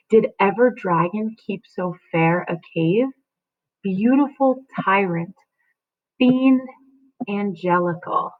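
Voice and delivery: reading Juliet's lines with feeling; dramatic reading. Acted. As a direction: read it like a stage speech. Teacher reads Juliet's lines aloud.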